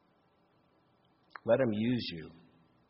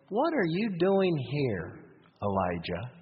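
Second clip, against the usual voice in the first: gentle God; slower than usual. Acted. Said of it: "how gentle and compassionate God is".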